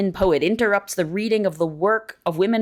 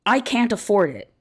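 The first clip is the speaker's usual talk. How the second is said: slightly raised, even quoted statement; lightly voiced academic woman; 2 semitones higher than usual. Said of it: "When an academic woman says".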